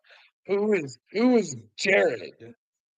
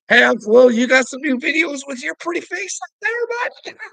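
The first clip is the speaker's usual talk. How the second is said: much higher and louder taunting hail; mocking call-out; 11 semitones higher, 7 dB louder than usual. Real, not acted. Calling out to Uncle Will, much higher and louder. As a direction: sing out his name high and loud to needle him.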